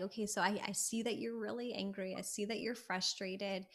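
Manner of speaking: soft, even, calming voice; calm acknowledging. Acted. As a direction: acknowledge their feelings gently and softly. Calm acknowledging of angry person.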